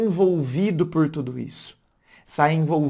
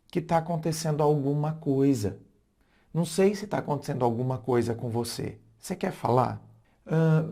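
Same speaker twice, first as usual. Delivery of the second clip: gentle welcoming tone. Shown as a demonstration. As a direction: open the door kindly. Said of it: "Tá vendo que como mudou?".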